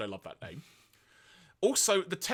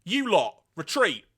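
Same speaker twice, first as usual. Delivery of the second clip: Galvatron; 4 semitones higher, 7 dB louder than usual. Retold or imitated. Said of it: "then says the following to his Decepticon comrades".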